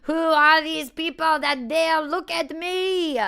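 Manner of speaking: a slow, lordly cat looking down on mortals; haughty cat voice. Pretend. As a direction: voice the cat as a scornful queen, slowly. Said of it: "as if she's saying".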